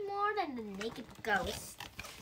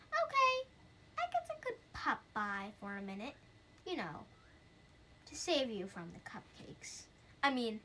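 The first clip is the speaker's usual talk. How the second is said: ghost voice; 6 dB louder than usual. Acted. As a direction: play the ghost doubting the scary party. Reads ghost's lines in voice.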